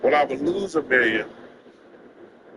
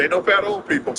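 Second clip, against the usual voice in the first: higher-pitched, lightly voiced doctor; quoting his doctor; 5 semitones higher than usual. Doctor warning patient about weight, lightly imitated. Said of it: "She said".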